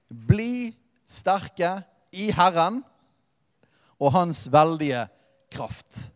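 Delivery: very slow, each word weighed, «kraft» breathed out unvoiced; solemn verse read-out, drawn out and fading to a breath; slow scripture reading. Shown as a demonstration. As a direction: read «bli sterke i Herren» at a crawl, with «kraft» nearly whispered. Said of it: "Det er der nøkkelen ligger".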